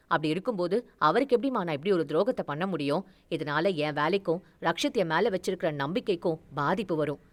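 firm refusal, voice dropped low; mild anger. Acted. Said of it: "அவர் கோபமாக கூற". (தாழ்ந்த குரலில் லேசான கோபம்)

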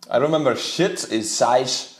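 shite said the Irish way, shit turned into shite; light Irish shite; recalling Irish accent class. Retold or imitated. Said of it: "That's how they say it".

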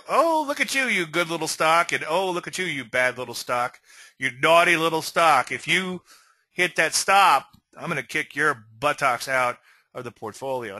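mock-chide a naughty little thing; silly mock scolding. Trader talking to his stocks as if to children, silly. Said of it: "I'm kind of being a little silly".

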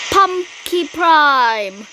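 slow, drawn-out hero name call; slow proud robot-hero name call; hero announcement. Pretend.

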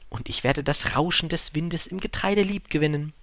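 lightly voiced wistful storybook fox; animated, from complaint into hopeful imagining; fox, wistfully pleading.

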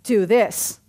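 slow, weighty contrast of you and I; slow preacher's quote of Jesus; slow emphatic quote. Retold or imitated. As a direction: spell out the contrast slowly. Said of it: "He said".

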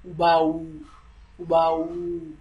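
"ubao" with a long drawn first u, then ba-o. Shown as a demonstration. Teaching students to say "ubao" with a long u. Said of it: "U is a lengthier one".

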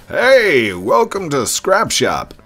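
bright, welcoming shop owner; cheerful shopkeeper voice. Acted. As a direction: greet the customer like a friendly shopkeeper.

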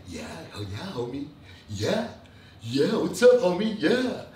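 a hint of a fake, soft, friendly greeting; mild imitation of a two-faced soft-voiced host. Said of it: "like, a little soft voice".

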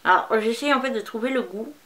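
candy in mouth; while chewing candy. Real, not acted. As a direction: mouth partly full. Seen 0: candy put in mouth at -5; mouth working while speaking.

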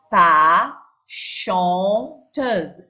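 "pas chanteuse" drawn out, "pas" loud and long; slow classroom model of "pas chanteuse"; very slow, stretched. Shown as a demonstration. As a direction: stretch out every sound for the class. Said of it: "teacher stretches final words".

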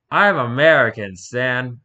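hammed-up American accent, loud. Interviewer telling Satan his religion, in broad American accent. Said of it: "I really gave the perfect accent to this".

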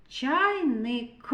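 "Чайник" with a separate, released К at the end; final К emphasized. Shown as a demonstration. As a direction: set off the last К in "Чайник". («Чайник» із відокремленим К)

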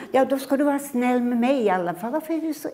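put-on mother losing patience with boy; exasperated mother. Acted mother voice. (uppgiven mamma)

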